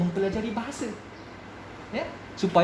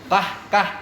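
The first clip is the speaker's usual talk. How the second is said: Lipis dialect; 2 semitones higher, 5 dB louder than usual. Shown as a demonstration. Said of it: "orang Lepih ni cakap laju".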